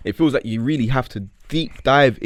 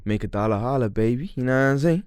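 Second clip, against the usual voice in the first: attempted New York accent. Repeating a catchphrase for his co-host, attempted New York accent. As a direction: try a New York swagger, unconvincingly American. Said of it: "terrible attempt of whatever accent".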